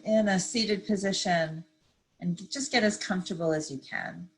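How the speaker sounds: calm, unhurried meditation guide; measured phrases with long pauses to breathe; guided meditation. Real, not acted. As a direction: ease listeners gently into stillness. Leads a seated meditation.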